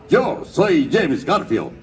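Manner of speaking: capitán pirata solemne, muy lento; preséntate con pompa, alargando las palabras; James Garfio. Shown as a demonstration. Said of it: "Que decía". (voz del capitán Garfio)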